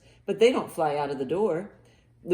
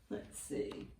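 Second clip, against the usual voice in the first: usual speaking voice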